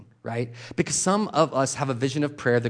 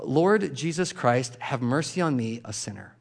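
prayer recited slowly; slower than usual. Shown as a demonstration. Preacher demonstrating the Jesus prayer, slow and fading. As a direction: recite it slowly, letting it fade. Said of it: "it goes like this".

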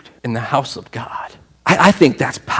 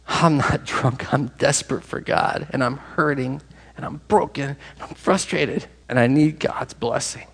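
quiet broken plea; 4 dB quieter than usual. Acted. Hannah's plea voiced softly.

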